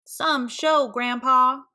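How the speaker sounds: high, sarcastic jab; teasing. Acted. Kids mock Archie's failed show, sarcastic. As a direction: tease the failed showman.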